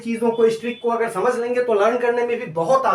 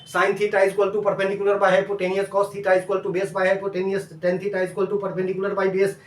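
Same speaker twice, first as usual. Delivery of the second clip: slow dictation; slower than usual. Shown as a demonstration. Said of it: "इसको समझना है".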